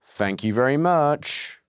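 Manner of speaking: slow, drawn-out thanks; unintentionally sarcastic-sounding thank you; sincere but sounding sarcastic. Real, not acted. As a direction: thank them slowly, so it could pass for sarcasm. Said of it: "I wasn't being sarcastic there".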